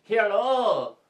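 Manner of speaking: sped-up chipmunk playback voice. Acted. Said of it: "You don't talk like the sped up voice".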